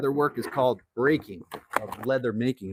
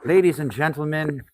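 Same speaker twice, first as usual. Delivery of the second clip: mock announcer; 4 dB louder than usual. Introducing the workshop to viewers, booming mock announcer. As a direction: announce the shop like a ringmaster.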